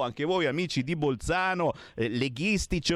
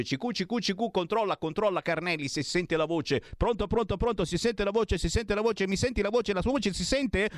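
mock radio check; 5 semitones higher than usual.

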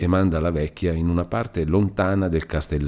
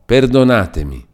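higher, louder plea for pardon; exclaimed plea; 6 semitones higher, 6 dB louder than usual. A narrator's reading. Villain begging his captive's pardon, exclaiming. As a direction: beg forgiveness in an outburst. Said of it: "esclamò".

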